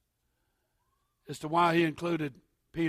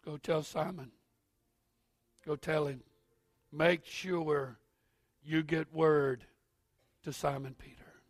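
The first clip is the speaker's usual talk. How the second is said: gentle angel's words. Retold or imitated. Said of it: "That's not what the angel said".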